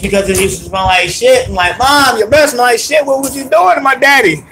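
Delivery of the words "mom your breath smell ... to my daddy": high, hammed-up outraged shout; comic high-pitched complaint; mock yelling. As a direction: act out a kid protesting to mom. Acted protest to mom in story.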